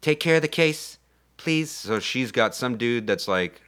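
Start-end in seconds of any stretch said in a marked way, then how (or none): 0.0-1.7 high-pitched acted plea; pleading heroine. Heroine begging a crewman to mind her case, mock pleading. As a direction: beg lightly, in the heroine's raised voice.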